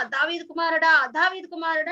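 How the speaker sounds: mild mock shout, easing on the repeat; retold loud cry. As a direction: imitate a beggar calling out, not at full volume. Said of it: "చాలా గట్టిగా".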